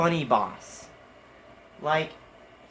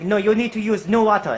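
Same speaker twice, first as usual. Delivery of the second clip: louder, higher mock scolding; pitched-up, insistent nagging; mad boss; 5 semitones higher, 6 dB louder than usual. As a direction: imitate an irritated boss correcting staff. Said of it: "he seems always mad".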